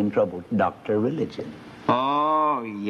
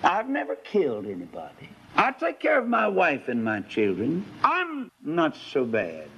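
self-satisfied sinner; 4 semitones higher than usual. Acted. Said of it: "what the sinner says".

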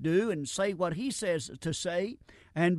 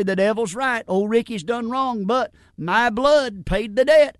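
voicing Jesus; 3 semitones higher, 8 dB louder than usual. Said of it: "he'll say".

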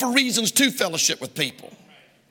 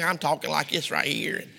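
Kentucky accent; 4 semitones lower, 5 dB quieter than usual. Shown as a demonstration. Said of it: "The brother from Kentucky".

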